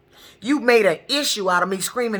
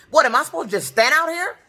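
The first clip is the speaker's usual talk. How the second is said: higher, pushed, indignant question; raised angry tone; 6 semitones higher than usual. Shown as a demonstration. Stranded at the bus stop, confronting the dispatcher, raised indignant tone. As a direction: demand it of the bus dispatcher, fed up. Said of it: "my tone got just like it is now".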